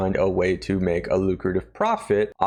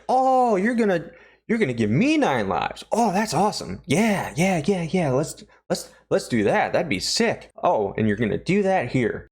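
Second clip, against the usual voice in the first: high, excited dopey voice, much higher; dim excited Ulrich; 8 semitones higher than usual. Retold or imitated. Ulrich realizing he gets nine lives, high and giddy. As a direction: play a giddy simpleton who just got it. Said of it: "it finally clicks in his tiny brain".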